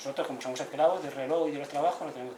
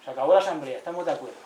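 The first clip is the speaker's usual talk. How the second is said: louder, declaring the assembly over; firm announcement; 6 dB louder than usual. Retold or imitated. Elders announcing the end of the assembly, firm and loud. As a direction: announce it with authority.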